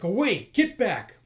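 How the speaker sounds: high, loud command; warning shout. Acted. Protector warding off attackers, shouted warning. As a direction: drive them back with your voice.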